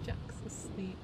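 hushed so as not to wake him; whisper. Real, not acted. Player noticing the sleeping pet, whispering. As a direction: breathe it softly.

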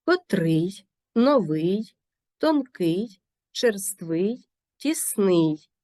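котрий, новий, тонкий, черствий, тісний stressed on ИЙ; stress on the ending. Shown as a demonstration. Teacher listing two-syllable adjectives, stress on the final ИЙ. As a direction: land each word on its final syllable. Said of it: "наголос падає на закінчення".

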